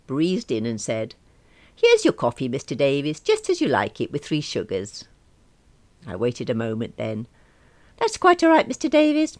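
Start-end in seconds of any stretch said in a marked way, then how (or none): 1.7-5.0 fake-cheerful assistant; sugary cover-up. Sweetly covering mistake to boss. 8.0-9.4 high, louder prim thanks; hammed-up gracious voice; mock-polite reply. Mimics boss's polite reply.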